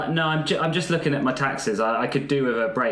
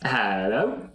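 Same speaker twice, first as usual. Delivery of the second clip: character voice; 6 semitones higher, much slower than usual. Acted. The speaker answers phone in character.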